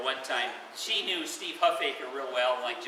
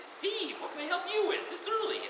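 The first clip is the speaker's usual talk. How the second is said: groggy early call. Retold or imitated. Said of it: "And I said".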